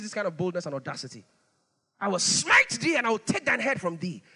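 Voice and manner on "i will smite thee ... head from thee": bold declaration. Retold or imitated. Preacher voicing David defying Goliath, bold and loud. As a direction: fling the threat back, loud.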